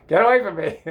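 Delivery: high, loud shoo-away; hammed-up girl's rejection; mock rebuff. Repeats girl's imagined rebuff, laughing.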